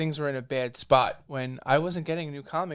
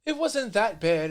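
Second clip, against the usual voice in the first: slow, much higher brushing-off voice; mock dismissive; 11 semitones higher, 4 dB louder, slower than usual. Editors brushing off the reporter's complaint, mock dismissive. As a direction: shrug it off sing-song. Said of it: "they'd be like".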